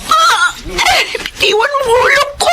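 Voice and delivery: umiiyak na sigaw ng sakit; takot na pakiusap. Acted. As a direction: humihiyaw na parang nasasaktan. Hinawakan ang ulo niya. (asawang babae, hawak ang ulo, umiiyak at sumisigaw)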